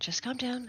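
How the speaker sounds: panicked, panicky, on edge. Voicing a character in a standoff, arms out toward two others: panicked, on edge. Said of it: "really on edge. Very panicked".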